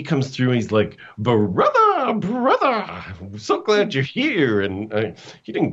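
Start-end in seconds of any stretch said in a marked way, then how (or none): 1.2-2.7 high, delighted little-brother greeting; overjoyed little brother. Retold or imitated. Brother greets depressed Wayne warmly. 2.7-4.6 high, slow, gushing welcome; overjoyed little brother. Retold or imitated. Brother greets depressed Wayne warmly.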